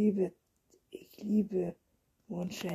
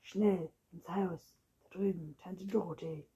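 urgent; 5 dB quieter than usual. Acted. Anna urges Anton to flee into the house, urgent. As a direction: hurry him inside, alarmed.

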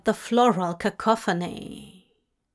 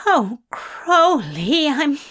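slow, higher, louder needy groan; 5 semitones higher, 5 dB louder, slower than usual. Acted. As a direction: moan the name with longing. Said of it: "Aziraphale groaned".

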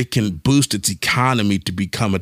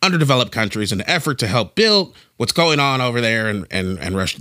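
brisk newscaster read, a bit quicker; reporter voice. Pretend. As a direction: read it like a TV news anchor. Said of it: "This is my reporter voice".

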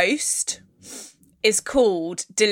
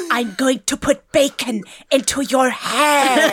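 imitating ghost; slower than usual. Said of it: "Astrid's in your ear being like".

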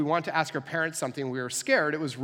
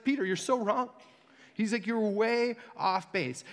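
blunt correction; 7 semitones higher, slower than usual. Retold or imitated. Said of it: "This is a pretty intense response".

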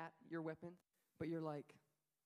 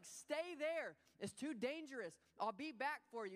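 higher, louder, firm reassurance; firm father; 5 semitones higher, 4 dB louder than usual. Retold or imitated. Father telling his son to stay put, firm and higher. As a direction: hold him in place. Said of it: "He's like".

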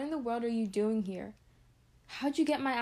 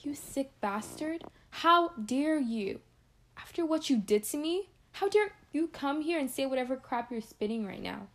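furious confrontation; 3 semitones higher than usual. Acted. Woman confronting her attacker, seething fury. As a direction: spit each word at him in disgust. Acted confrontation after assault.

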